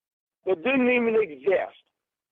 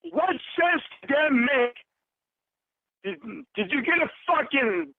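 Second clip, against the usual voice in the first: angry; 5 semitones higher than usual. Real, not acted. Furious confrontation over being catfished.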